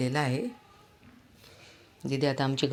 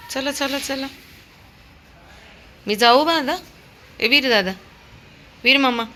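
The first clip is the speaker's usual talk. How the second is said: high coaxing; 10 semitones higher, 6 dB louder than usual. Real, not acted. Coaxing the dog.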